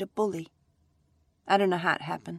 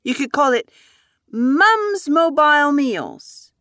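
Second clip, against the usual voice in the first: put-on excited child; 9 semitones higher, 9 dB louder, slower than usual. Child naming the business.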